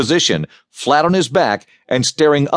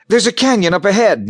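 gasped alarm; 9 semitones higher than usual. Acted. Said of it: "Nina gasped".

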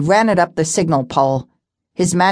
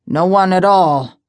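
gruff; 2 semitones higher, 3 dB louder than usual. Acted. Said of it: "he said gruffly".

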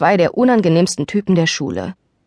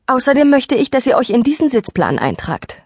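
teacher voice; 7 semitones higher than usual. A narrator's reading.

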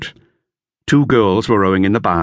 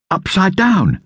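higher, lightly voiced boy; boy's voice, lifted higher; Dick; 12 semitones higher, slower than usual. A narrator's reading. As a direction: read it as young Dick. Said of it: "he said".

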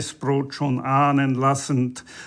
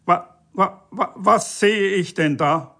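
high stammer bursting into outrage; sputtering bellow; 5 semitones higher than usual. A narrator's reading. EU official discovers a violation, sputtering in outrage. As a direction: stutter on the first word, pitched up. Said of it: "brüllte der E-U-Beamte".

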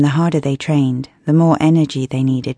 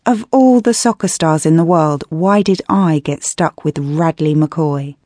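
fuming; 2 semitones higher than usual. Acted. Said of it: "I fumed".

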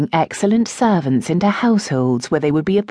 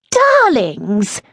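cried greeting; 7 semitones higher, 4 dB louder than usual. A narrator's reading. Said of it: "Lady Adelaide cried".

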